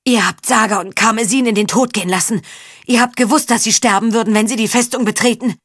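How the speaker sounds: angry accusation, voice climbing; accusing anger. Acted. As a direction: hurl the blame at them. Faun accuses the knights.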